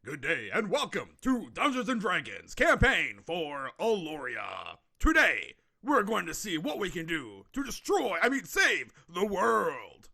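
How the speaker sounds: announcer voice. Pretend. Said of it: "Your voice actually is pretty good for, like, announcements".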